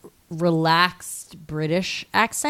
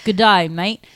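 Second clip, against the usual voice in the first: broad, put-on Aussie greeting; mock Australian accent; 4 dB louder than usual. Shown as a demonstration. Co-host takes another turn, hammed-up Australian accent. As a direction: greet a mate in exaggerated Australian.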